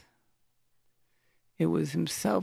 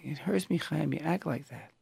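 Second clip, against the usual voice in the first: softer, understated hurt; 5 dB quieter than usual. Shown as a demonstration. Parent telling Chaim he is hurting, soft voice. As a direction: let the hurt show softly, without yelling. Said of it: "with a soft voice that shows you're hurting".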